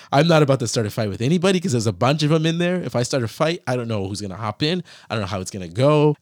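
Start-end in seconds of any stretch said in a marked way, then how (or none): 0.1-2.8 laughing. Real, not acted. Laughing about being humbled in cell.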